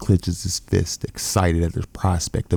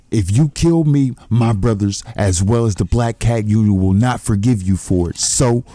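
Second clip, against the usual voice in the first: mock scream; 4 semitones higher than usual. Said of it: "screams out Cho Eagle".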